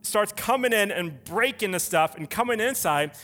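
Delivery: forceful, emphatic sermon delivery; driven preaching. Acted. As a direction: preach it hard, hitting the key words.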